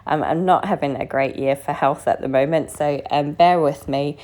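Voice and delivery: hoarse, croaky from bronchitis. Real, not acted. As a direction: talk through a sore, croaky throat. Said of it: "So excuse the croaky voice".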